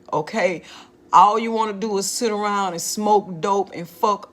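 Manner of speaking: a hint of a stern mother, retold; lightly voiced mom, fed up and lecturing her grown child; stern mother scolding. Mother scolding her lazy daughter.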